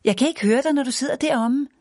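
shouting back. A narrator's reading. Mother on the bike shouting back to Annika. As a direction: shout back over the shoulder. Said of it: "råbte hun tilbage".

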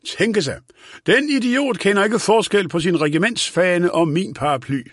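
lightly voiced old man complaining about an idiot; indignant old man. A narrator's reading. Old man scoffs at colonel. (let forarget gammel herre)

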